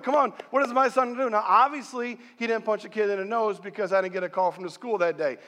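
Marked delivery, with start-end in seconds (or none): 0.0-1.3 great anticipation. Retold or imitated. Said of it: "anticipation for him to come home".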